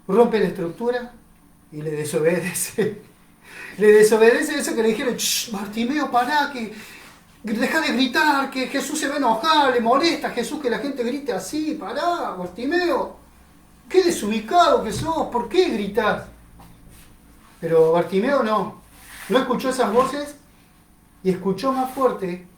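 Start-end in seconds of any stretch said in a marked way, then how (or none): 5.1-16.2 irritated hushing, higher; scolding hush. Acted. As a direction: shush him and scold him. Crowd hushes and scolds Bartimeo.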